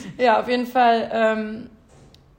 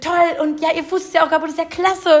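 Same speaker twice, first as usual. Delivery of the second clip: a touch higher, lightly voiced cheerful man; quoting the neighbour; 6 semitones higher, 4 dB louder than usual. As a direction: mimic a chirpy seatmate. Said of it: "der neben mir". (leicht gespielter fröhlicher Sitznachbar, etwas höher)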